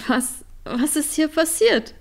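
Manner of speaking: high, loud, holding back a laugh; stunned disbelief. Acted. Trini finds Line in the chaos, high astonished question. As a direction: gasp it out, barely not laughing. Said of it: "fragte Trini und versuchte, nicht jetzt schon zu lachen".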